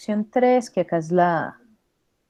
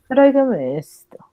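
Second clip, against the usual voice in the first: haughty snob; 4 semitones higher than usual. Acted. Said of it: "Imagínense que ustedes son unos señores creídos".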